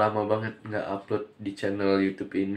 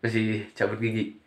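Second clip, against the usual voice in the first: slight lisp from a pulled tooth; lisping after tooth extraction; 5 dB quieter than usual. Real, not acted. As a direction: talk with a sore mouth after a tooth pull, slightly lisping. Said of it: "Makanya ngomongnya agak cadel".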